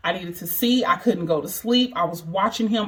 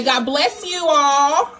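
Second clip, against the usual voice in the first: slow prompting; 7 semitones higher, 5 dB louder, much slower than usual. Real, not acted. Mother feeding her son words to repeat, slow and high.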